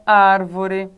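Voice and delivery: "árvore" devagar, com "ár" forte e alongado; tônica na antepenúltima. Shown as a demonstration. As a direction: pese na primeira sílaba de "árvore". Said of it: "na antepenúltima sílaba". ("árvore" com o "ár" inicial destacado)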